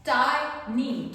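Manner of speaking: टाइनी drawn out slowly as ट-आइ-नी, the आय stretched; slow demo. Shown as a demonstration. Teacher showing students the word टाइनी, slowly drawn out. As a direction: stretch टाइनी so the आय sound is clear. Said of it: "ट के बाद में आय का sound सुनाई दे रहा है".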